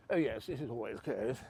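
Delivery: put-on upper-class English accent; mock posh accent. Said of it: "Oh, sorry, my voice again".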